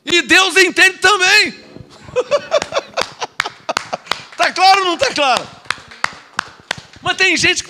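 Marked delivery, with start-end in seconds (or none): 2.1-4.1 high, breathy chuckle; laugh. Real, not acted. Preacher amused after his point, high laughing. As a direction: let out a long high laugh.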